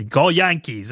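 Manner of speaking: mock New York accent; lightly imitated New York fan accent. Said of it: "He's got the New York thing".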